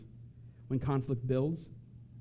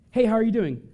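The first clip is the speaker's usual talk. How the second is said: mock cheery greeting; 6 semitones higher, 6 dB louder than usual. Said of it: "you say the one thing".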